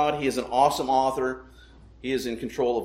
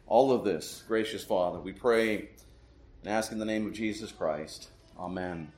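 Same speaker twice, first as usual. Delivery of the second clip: pastoral prayer. Real, not acted. Pastor asks God's blessing on the preaching, solemn prayer.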